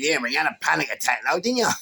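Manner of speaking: fast, loud jeer; mocking jab. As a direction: rattle it off to rub it in.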